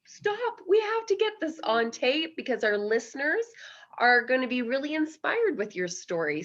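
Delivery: high, eager stop-everything call; excited urging. Retold or imitated. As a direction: burst in with sudden excitement, high. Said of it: "And I said".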